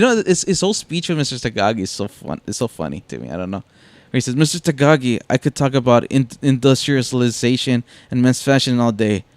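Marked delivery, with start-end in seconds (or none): 4.4-9.2 lightly imitated German villain, louder toward the end; German accent. Villain addressing Mister Takagi, lightly imitated German accent. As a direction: quote the villain with a hint of German. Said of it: "him and his German accent".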